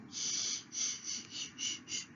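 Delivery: soft whispered shh to quiet the dog; breathy shushing, real; hushing whisper. Real, not acted. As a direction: hush him without voice. Hushing the barking dog Bob.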